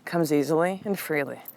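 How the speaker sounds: gentle breathing mantra; soothing mantra. Retold or imitated. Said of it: "Say this with me".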